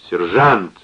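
put-on slurring drunkenly; tongue thick with drink; slurred drunk speech. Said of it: "начал он рассуждать заплетающимся языком".

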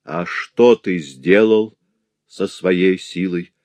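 very slow, heavy question; solemn slow challenge; slow rebuke. Acted. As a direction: press the question slowly.

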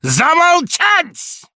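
very slow, high, loud bellow; thundering command. A narrator's reading. Samoylenko silencing Laevsky, a very slow loud bellow. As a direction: stretch out the order.

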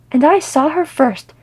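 loud, high, drawn-out indignant protest; snapping. Acted. Philly staking a claim on seeing her first, snapping. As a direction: snap it out, slow and emphatic. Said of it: "Philly snapped".

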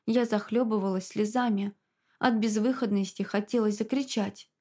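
ordinary delivery, nothing marked

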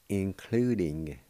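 "including." drawn out slowly and distinctly; slow and clear. Shown as a demonstration. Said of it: "And it's spelled this".

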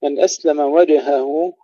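slow وجهه, bounced jeem then clear ha; jeem qalqala. Shown as a demonstration. Teacher models the verse, bounced jeem in وجهه. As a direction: echo the jeem in وجهه before the h. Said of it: "قلقلة الجيم ثم إظهار الهاء".

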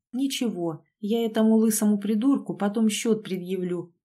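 plain reading voice

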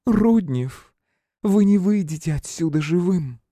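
high hissing threat in a woman's voice; threatening woman. A narrator's reading. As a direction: menace him slowly. (угрожающий высокий женский голос)

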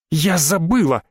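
usual speaking voice

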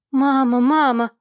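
put-on loud begging child's cry; girl's voice pleading loud. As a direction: beg mother through the door. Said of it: "умоляла её Луи".

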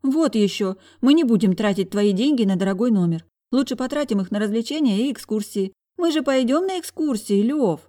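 whining. A narrator's reading. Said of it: "законючила я".

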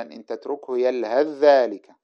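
"يلهث ذلك" run together as yalhadh-dhālika; assimilated tha. Shown as a demonstration. Teacher gives a recitation example, assimilated tha. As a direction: merge the ث of "يلهث" into a doubled ذ. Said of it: "أدغمنا الثاء في الذا".

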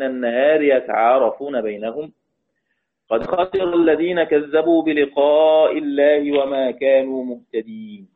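slow, measured recitation of the verse; Quran recitation. Acted. Teacher reciting a verse to her students, slow measured recitation. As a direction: chant the verse slowly for the students.

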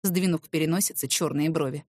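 ordinary delivery, nothing marked

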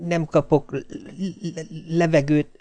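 high, faint, stuttering short of breath; gasping for air. A narrator's reading. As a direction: struggle feebly to get the word out. (magas, halk, lihegő dadogás)

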